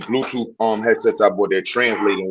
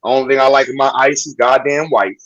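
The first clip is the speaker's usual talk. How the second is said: mock white American accent; 5 semitones higher, 5 dB louder than usual. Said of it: "I got my American accent".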